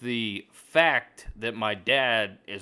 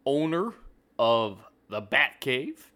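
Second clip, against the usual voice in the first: cracking voice, slowing down; 2 semitones higher, slower than usual. Real, not acted. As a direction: voice cracks up on owner. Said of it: "Sorry for the voice crack".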